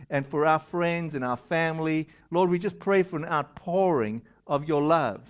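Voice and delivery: earnest, lightly hushed prayer; spoken prayer. Acted. Pastor prays for congregation.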